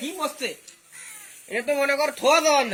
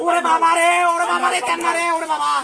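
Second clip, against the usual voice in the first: in ice cold water. Acted. Cold water poured on him.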